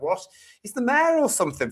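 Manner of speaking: high-pitched retold bewilderment; incredulous, voice jumping up; baffled. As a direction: act out not understanding a word. Retold bafflement at unintelligible accent.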